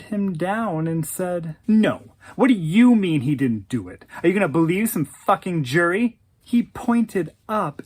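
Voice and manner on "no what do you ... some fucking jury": angry disbelief. Retold or imitated. She stares him down angrily.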